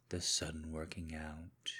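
soft whispered list; whispered accusation. Acted. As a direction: whisper the last clue. Husband lists wife's changes.

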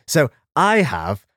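low, jolly Santa Claus voice. Acted. Plays Santa reading letters.

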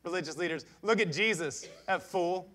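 derisive scoff building to loud disbelief. Acted. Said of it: "They scoffed and they said".

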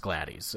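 "Gladys" said as GLAD-eez; long eez ending on "Gladys"; spelling pronunciation. Shown as a demonstration. Host arguing how it should sound, "Gladys" as GLAD-eez. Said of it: "it should be pronounced Gladys".

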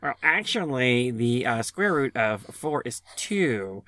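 slow know-it-all professor; nerdy professor voice. Pretend. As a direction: lecture like a smug nerd.

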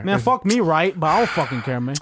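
mock self-pitying don't-care rant; exaggerated impersonation of a put-out friend; Otis. Host keeps up teasing impersonation of his friend, mock indifference. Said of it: "my best impersonation of Otis".

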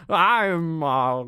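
a German villain's hammy put-on American accent; Hans's fake American accent. Hans playing a helpless American, mock nasal accent. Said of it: "his American accent that he does is way over the top".

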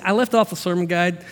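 normal talking voice

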